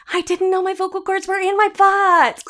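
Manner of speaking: sarcastic. Real, not acted. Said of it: "sarcastic aside".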